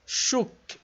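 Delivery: shuk sussurrado, u fechado. Shown as a demonstration. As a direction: pronounce shuk with a closed u. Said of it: "o Vav com som de U". (pronúncia de shuk)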